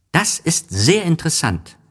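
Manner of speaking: put-on high, eager child voice; little prince. A narrator's reading. Little prince praises the geographer's job, high and eager. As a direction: sound like a delighted boy. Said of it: "sagte der kleine Prinz".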